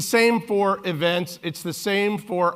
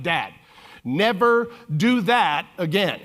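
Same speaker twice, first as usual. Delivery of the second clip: put-on deadpan teen; 2 semitones higher, 4 dB louder, slower than usual. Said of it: "in the most plain English you can imagine".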